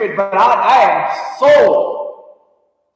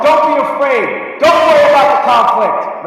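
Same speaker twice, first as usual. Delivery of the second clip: rallying shout; 4 semitones higher than usual. Real, not acted. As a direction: fire up the front office. Urging the team to draft boldly.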